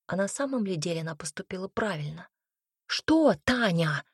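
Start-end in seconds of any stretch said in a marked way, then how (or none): 2.9-4.0 slow, mocking imitation of her plea; mocking mimicry. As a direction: parrot her words back slowly. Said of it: "перекривила её гостья".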